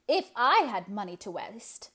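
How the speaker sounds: loud and grim, spitting out the words; grudging old spinster, hard and cross. Acted. Eliza grimly scorning money wasted on the hall. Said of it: "said Eliza grimly".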